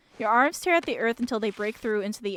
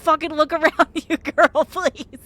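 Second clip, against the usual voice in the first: loud, high sassy scolding; 5 semitones higher, 8 dB louder, slower than usual. Real, not acted. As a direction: tell the character off with attitude. Sassy scolding of a game character.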